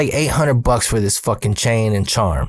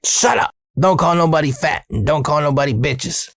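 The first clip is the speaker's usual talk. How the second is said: scolding mom. Retold or imitated. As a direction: snap at your kid like an angry mom. Mom scolding son in story.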